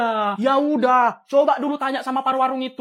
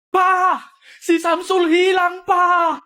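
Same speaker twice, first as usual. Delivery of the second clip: slow frantic shout for help; panicked shout that a child is missing; alarmed call; 5 semitones higher, much slower than usual. Acted. Mother calling out alarmed.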